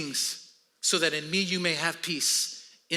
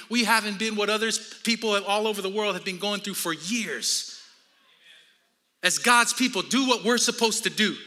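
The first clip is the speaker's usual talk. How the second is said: raised, emphatic preacher's delivery; energetic preaching; 3 semitones higher, 4 dB louder than usual. Acted. Pastor urging the church to get into Jesus, energetic preaching. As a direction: press each point home to the congregation.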